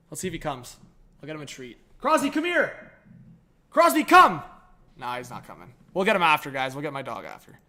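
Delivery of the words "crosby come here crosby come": high-pitched call to a pet; calling the dog. Real, not acted. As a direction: coax a dog over in a high voice. Calling his dog over.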